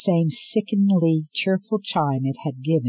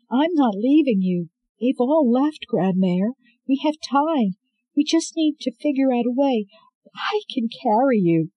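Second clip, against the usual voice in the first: higher, loud urgent reassurance; anxious young woman; 10 semitones higher, 5 dB louder than usual. Acted. Scarlet finding her grandmother in the cell, anxious and urgent. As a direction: rush to calm her with your voice.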